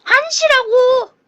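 loud, drawn-out exasperated shout; frustrated yell. Real, not acted. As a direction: yell it out in disbelief. Game clock reset to one.

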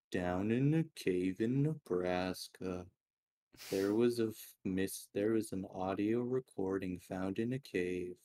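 measured mock narrator cadence; horror story narrator. Imitating horror videos for a friend, mock narrator. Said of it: "those horror stories that are like".

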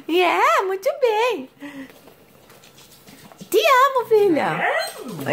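tender motherese, sliding up high. Real, not acted. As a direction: coo lovingly to your newborn. Mother cooing to baby daughter.

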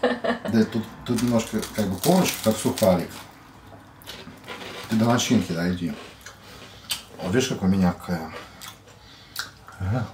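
chewing while talking; talking between bites; mouth full. Real, not acted. Seen 1: Woman bites big sandwich, then chews; later lines may be man's.

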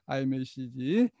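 ordinary talk

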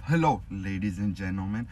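measured announcer demo; slow professional announcing. Shown as a demonstration. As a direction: announce it slowly, every word pronounced. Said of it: "so you gotta slow down".

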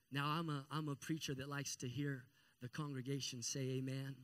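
ordinary talk, nothing marked

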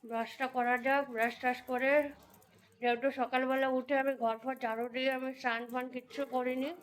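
talking with a toothbrush in; words round a toothbrush; while brushing teeth. Real, not acted. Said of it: "চলো brush করছি আমি এখন".

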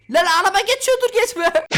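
high, loud warning yell; a sudden panicked call; alarmed shout. Real, not acted. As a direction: shout it as a car cuts in. Car coming, warning himself.

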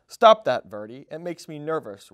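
put-on a nervous old snake scolds Verdi; complaining. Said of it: "Ribbon complained".

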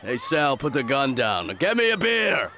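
lightly voiced father, jumping to a high yell; dad watching film. Coach imitating his dad watching television, building to yelling. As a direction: mimic dad, shouting up on the last demand. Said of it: "hear my dad watching".

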